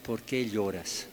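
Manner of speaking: en voz baja, con ternura, "¿Por qué lloras?" con "qué" marcado; pregunta suave de ángel. Retold or imitated. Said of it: "que preguntan a María". (el ángel le pregunta a María con suavidad)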